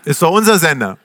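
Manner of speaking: usual speaking voice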